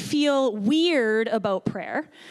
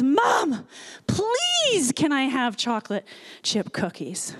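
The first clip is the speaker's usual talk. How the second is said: put-on slightly louder pleading child; slower than usual. Little boy asks Mom a second time for cookies, louder plea. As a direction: imitate a small boy begging more insistently. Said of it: "just a little bit louder says".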